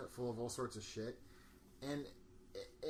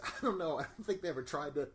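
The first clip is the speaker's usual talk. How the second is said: a laughing Lucius quote; quoting Lucius while cracking up; 5 semitones higher, 9 dB louder than usual. Retold or imitated. Laughing while quoting Lucius to friends.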